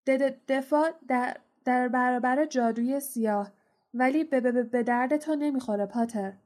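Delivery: lightly nervous stammer; stuttering mutter. Acted. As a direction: stammer it out, barely voiced. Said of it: "زیر لب گفت".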